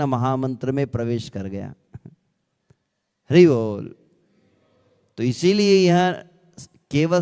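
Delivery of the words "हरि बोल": a loud, ringing call of Hari बोल to the crowd. Real, not acted. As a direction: rouse the hall with Hari बोल. Call to the congregation. (ऊँचे स्वर में हरि बोल का आह्वान)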